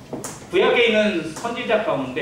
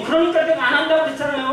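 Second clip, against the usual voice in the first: higher-pitched, argumentative mock complaint; indignant protest; 7 semitones higher, 3 dB louder, faster than usual. Moses protesting to God after being sent to Egypt, indignant. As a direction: act out a told-you-so protest. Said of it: "막 그러면서 막 따지기도 해요".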